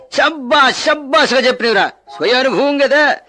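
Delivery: delighted praise. Acted. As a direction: hail the cheeky answer with relish. Official applauds pupil's cheeky answer.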